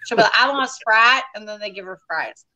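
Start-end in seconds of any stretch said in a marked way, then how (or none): 0.4-1.2 lightly imitated Southern mom ordering; Southern accent. Mother orders at the drive-thru, mild Southern accent. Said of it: "you had a Southern accent there".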